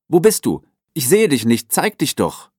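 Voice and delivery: calling out. A narrator's reading. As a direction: shout into the empty forest, searching. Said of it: "rief Fio".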